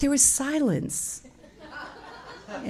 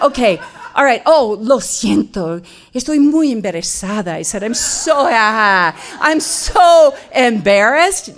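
louder, laughing through an embarrassed sorry; flustered laughing apology; 6 dB louder than usual. Retold or imitated. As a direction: laugh nervously while apologizing. Flustered apology at dinner table.

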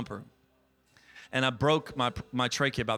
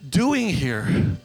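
incredulous; 6 semitones higher, 7 dB louder, much slower than usual. Retold or imitated. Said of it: "I was like".

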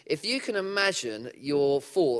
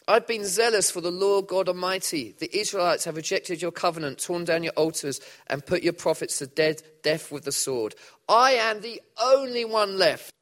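despairing prophet; 4 semitones higher, 4 dB louder than usual. Acted. Elijah replies to God.

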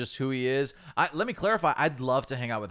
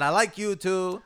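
high female voice imitation; 6 semitones higher, 3 dB louder, slower than usual. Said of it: "She said".

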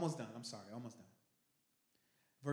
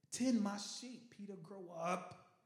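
slow stern charge; 7 semitones higher, 3 dB louder, much slower than usual. Acted. Jesus charging Peter.

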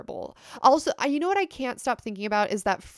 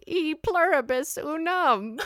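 witch voice; 7 semitones higher, slower than usual. Pretend. Witch voice continues the bit.

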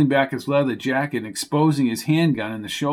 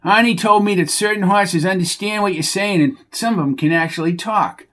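higher, whiny voice of a dim stable hand; exasperated Bucky; 6 semitones higher than usual. Acted. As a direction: scold the horse like a fed-up oaf. Bucky tells horse gossip.

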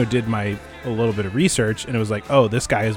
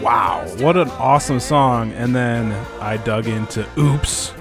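frat bro; 5 semitones higher than usual. Real, not acted. Excited bro praise of the record.

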